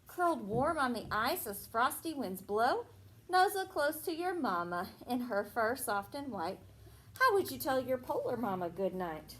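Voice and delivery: sing-song storybook reading; reading to children. Acted. Teacher reading a Christmas rhyme to a child. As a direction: read the rhyme to the little ones. Teacher reads picture book aloud.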